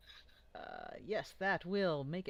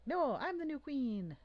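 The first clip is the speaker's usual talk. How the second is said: high, slow, loud goblin protest; the new goblin queen insisting on her title, high and slow; 10 semitones higher, 5 dB louder, slower than usual. Acted. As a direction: stretch it out, high and indignant. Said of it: "She's like".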